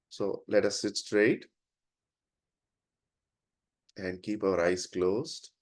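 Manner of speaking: unhurried instructions with long pauses; guided prayer. Real, not acted. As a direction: guide the group gently into silent prayer. Leads a silent prayer.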